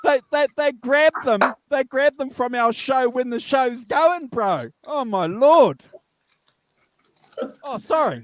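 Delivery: high glitchy call audio; warbling sped-up sound; chipmunk voice. Real, not acted. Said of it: "you sound like the Chipmunks".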